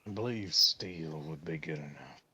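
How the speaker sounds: put-on slipped into a lightly drawled country accent. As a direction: rural country voice by mistake. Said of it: "thrown me out of my Irish accent into a country accent".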